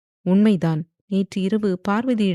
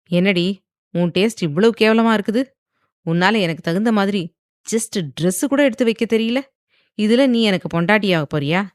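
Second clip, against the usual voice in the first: mocking; 2 semitones higher, 4 dB louder than usual. Viyan sneering at her taste in clothes, loud and mocking. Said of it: "என்று நக்கலாக கேட்டான் வியான்".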